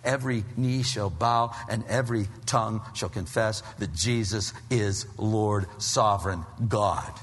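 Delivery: low, soft, solemn proclamation; awed hush of scripture; hushed reverent. Real, not acted. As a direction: drop the voice and let it reverberate.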